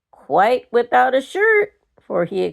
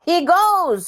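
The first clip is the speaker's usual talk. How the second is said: firm decision; 8 semitones higher than usual. A narrator's reading. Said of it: "said Michael with a strength from his mother".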